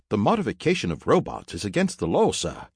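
high-pitched robot reciting a rule; high robot butler voice; formal robot servant. Acted. Robot objects on legal grounds.

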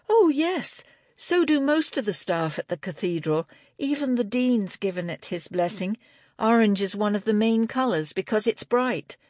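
high-pitched, chatty confirmation; Angela, eager knitter. A narrator's reading. Angela assuring Libby the cathedral staff know, eager. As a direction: start high on an emphatic yes, stay lifted.

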